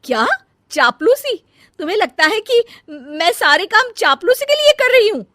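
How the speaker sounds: elder bahu outraged at being called a flatterer. Acted. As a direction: shout back in disbelief. Outraged reply in quarrel.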